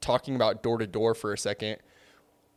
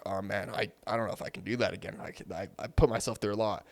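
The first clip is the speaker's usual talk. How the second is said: worn-out reluctance; 3 semitones lower, 9 dB quieter, faster than usual. Acted. Voicing worn-out reps after summer.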